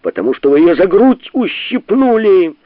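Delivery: loud, high accusing shout. A narrator's reading. Bormenthal shouts at Sharikov, loud and high. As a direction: yell the accusation across the table. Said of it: "закричал Борменталь".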